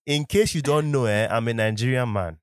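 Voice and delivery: emphatic Nigerian English; Nigerian accent. Shown as a demonstration. Podcaster explaining himself to listeners, Nigerian accent. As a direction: lean into the Nigerian accent, punchy at the start. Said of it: "the Nigerian accent can also come out".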